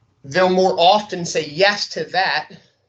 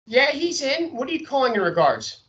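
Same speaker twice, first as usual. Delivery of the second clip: gatekeeper voice; 9 semitones higher than usual. Acted. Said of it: "changing my voice a little bit".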